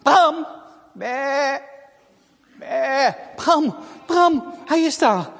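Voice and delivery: high, loud calls and bleats; excited calling. Acted. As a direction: call and bleat toward the barn. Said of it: "En ze roept".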